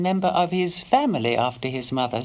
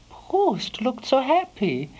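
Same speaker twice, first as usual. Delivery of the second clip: usual speaking voice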